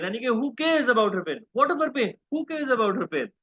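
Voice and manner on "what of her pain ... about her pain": "What" thrown out high and scornful; scornful sarcasm. Shown as a demonstration. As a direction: sneer the question, nobody cares. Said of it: "So the sarcasm is".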